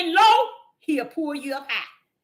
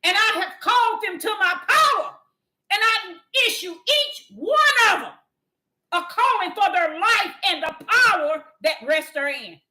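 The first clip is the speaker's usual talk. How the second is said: voicing the Lord; 4 semitones higher than usual. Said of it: "tell him, Deborah".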